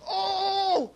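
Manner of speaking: high, loud frustrated outburst; a child's furious "Oh!" at toys that won't stick; frustrated cry. Retold or imitated. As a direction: mimic the boy's exasperated shout. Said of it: "and goes".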